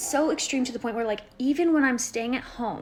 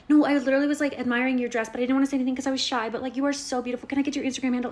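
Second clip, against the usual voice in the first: put-on higher, louder, rushed girly gush; gushing girl; 4 semitones higher, 4 dB louder, much faster than usual. A girl returning a street compliment, gushing high and fast. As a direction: play the flattered girl gushing back fast.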